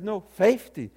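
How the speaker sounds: loud, insistent Southern "FAY-fty"; mock-stubborn Southern pronunciation of "fifty"; Southern dialect. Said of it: "practicing the Southern dialect fifty".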